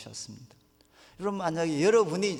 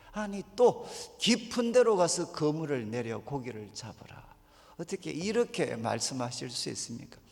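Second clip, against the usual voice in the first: indignant retort, last word breathed away; exasperated mock complaint. Tired Simon protests Jesus's order, mildly exasperated. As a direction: throw the order back in disbelief. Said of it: "아마 이렇게 반응했을 거예요".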